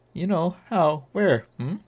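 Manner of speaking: loud, cheeky Welsh fairy; brash Welsh sidekick calling out; Welsh accent. Acted. Welsh companion again.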